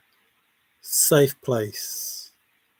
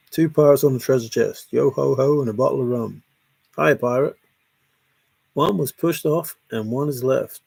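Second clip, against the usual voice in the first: pirate rhyme recital. Acted. Reciting a treasure chest rhyme to viewers, singsong.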